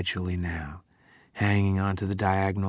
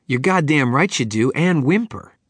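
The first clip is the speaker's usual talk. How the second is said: loud, much higher angry voice; angry accusation; 6 semitones higher, 9 dB louder than usual. Acted. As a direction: jeer at him angrily. Prisoner accusing Billy angrily.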